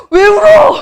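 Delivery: a shrieked "why are you crying?", high and loud; teacher retelling her shock at a crying student. Retold or imitated. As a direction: shriek it in laughing disbelief. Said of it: "막 이랬더니".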